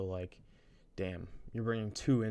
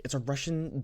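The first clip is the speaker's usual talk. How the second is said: lightly faked Russian accent, raised pitch; mock Russian accent; 5 semitones higher, 4 dB louder than usual. Student re-quoting the instrument player, rough Russian accent. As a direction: imitate a Russian accent, badly. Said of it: "Sorry, I don't know Russian accents".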